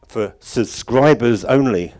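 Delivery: "subscribers" drawn out slowly and hit hard; stress on subscribers. Real, not acted. Speaker limits the audios to members, pointedly stressing "subscribers". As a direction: lean heavily on "subscribers", taking it slow. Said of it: "I'll try to emphasise that word".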